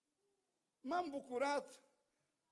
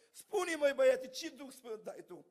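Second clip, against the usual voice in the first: louder, challenging elder's question; raised voice of an old preacher pressing a youth; pressing demand; 5 dB louder than usual. Retold or imitated. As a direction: push him for a straight answer. Elder presses him hard.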